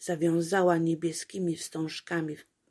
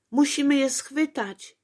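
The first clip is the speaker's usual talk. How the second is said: much higher, louder urgent cry; shout; 8 semitones higher, 6 dB louder than usual. A narrator's reading. Apolejka shouting as the apple rolls away. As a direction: call out to catch the apple. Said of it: "krzyknęła Apolejka".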